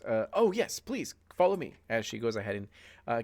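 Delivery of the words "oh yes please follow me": receptionist. Acted. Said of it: "sure enough, she goes".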